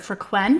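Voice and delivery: free-KWENT, accent on the end of "Frequent"; stress on last half. Shown as a demonstration. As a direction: lean on the second syllable of "Frequent". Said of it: "accent on the last half of the word".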